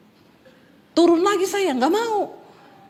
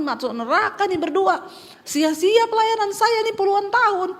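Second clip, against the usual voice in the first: a frightened wife muttering prayers in a speeding car; retold panic; 2 semitones higher than usual.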